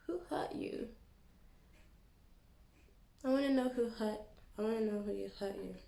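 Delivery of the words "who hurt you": higher mock-sympathetic whisper. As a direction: whisper it with fake pity. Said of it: "mock sympathy".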